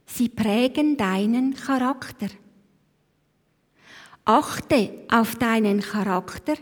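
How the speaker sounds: slow, weighty recitation with long pauses; recited saying. Acted. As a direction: let each line of the saying sink in.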